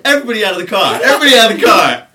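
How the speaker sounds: loud, high mock cop command; shouted order. Cop ordering boys out of a car, shouting. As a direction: yell it like a cop clearing a car.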